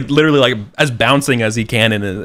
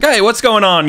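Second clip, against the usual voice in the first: high, loud call of a startled groom; 13 semitones higher, 6 dB louder than usual. Retold or imitated. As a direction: call out like a groom surprised by the noise. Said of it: "the groom being like".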